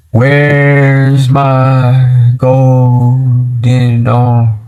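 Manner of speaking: long drawn-out ghostly wail; ghost lady haunting. Retold or imitated. Dead lady haunting the new family, slow ghostly moan. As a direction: stretch each word slowly, like a spook. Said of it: "she started telling the family".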